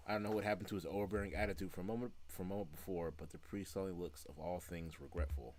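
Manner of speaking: fast, even reading of game text; story reading. Acted. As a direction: read the narration straight through, fast. Reads the game text aloud.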